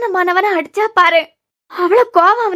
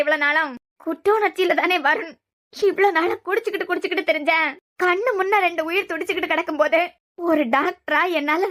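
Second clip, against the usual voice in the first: quiet grieving reproach; 6 dB quieter than usual. Acted. Mother reproaches grieving son.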